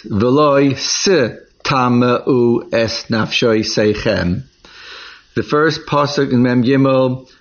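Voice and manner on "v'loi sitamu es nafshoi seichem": slow, deliberate reading of the verse. Shown as a demonstration. Teacher reads the verse to students, slow and deliberate. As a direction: read each Hebrew word out slowly. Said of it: "Pasuk Mem Daled states".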